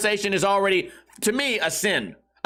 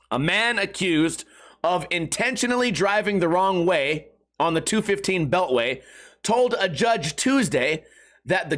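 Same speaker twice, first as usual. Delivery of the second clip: measured article reading with deliberate pauses; news read. Acted. Reads the news article aloud.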